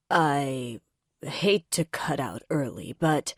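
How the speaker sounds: a touch of flustered stammer. A narrator's reading. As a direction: fumble the words as you back out. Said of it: "he stammers".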